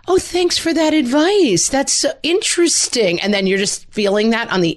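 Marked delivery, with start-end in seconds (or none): 0.1-3.2 high, sugary mock-polite thanks; fake polite. Adult forcing politeness when annoyed, high fake-sweet tone. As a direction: put on a bright fake smile voice. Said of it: "you have to be like".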